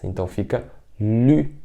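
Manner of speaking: "lü" with rounded "i" lips; Mandarin lü. Shown as a demonstration. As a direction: model "lü". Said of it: "Se você colocar o L antes". ("lü" com biquinho)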